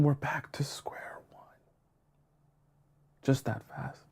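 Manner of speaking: whispered punchline, all voice gone; hushed letdown. Real, not acted. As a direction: drop to a near-whisper. Deflated punchline after mock chat.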